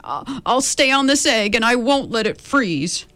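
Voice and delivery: lightly voiced resolute elephant; steady and sure, a promise kept; determined elephant. Horton vowing to the cold egg, mildly determined. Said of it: "kept sitting and said".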